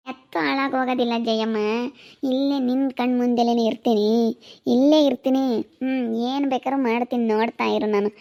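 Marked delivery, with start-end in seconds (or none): 2.3-6.1 louder, defiant yell that she is staying; defiant wife yelling at her mother-in-law; defiant shout. Acted. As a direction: plant your feet and shout it back. Defiant wife shouting back in quarrel.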